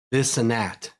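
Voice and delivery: "This and that" run together as "this 'n' at", th dropped on "that"; Pittsburgh this 'n' at. Shown as a demonstration. Explaining his old Pittsburgh habit, slurring this 'n' at. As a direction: slur "This and that" into "this 'n' at", Pittsburgh style. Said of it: "my big one was and that".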